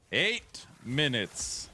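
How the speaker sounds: slow, stretched eight minutes; slow, emphatic eight minutes; drawn-out announcement. Real, not acted. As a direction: lean on eight, slowly.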